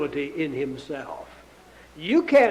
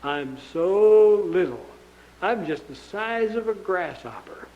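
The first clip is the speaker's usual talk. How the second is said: slow, small voice of timid spies; mock timid Israelites. Preacher mocking the spies who saw the giants, timid and small. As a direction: shrink into a timid little voice, lightly mocked. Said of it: "they just looked up at 'em and they said".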